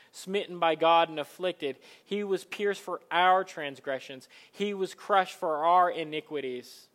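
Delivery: measured, solemn reading of Isaiah; scripture reading. Acted. Preacher reading scripture to the congregation, solemn. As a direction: read the prophecy with weight. Reads Isaiah aloud in sermon.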